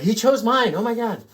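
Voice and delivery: high, loud fan squeal; imitating a viewer who just heard their town read out; imitating excited viewer. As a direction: play a thrilled viewer whose name got read. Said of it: "People seem to get really excited".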